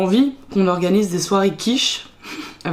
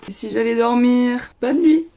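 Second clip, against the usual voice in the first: feigned surprise; 4 semitones higher than usual. Pretend. Mock excuse to end the reading.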